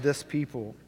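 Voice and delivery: "this" gently stressed, falling. Shown as a demonstration. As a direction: lean on the word "this". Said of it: "It's just".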